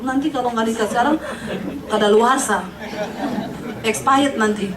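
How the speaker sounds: chuckling through the punchline; laughing. Real, not acted. Preacher teasing singles, laughing. Joke about marrying past thirty.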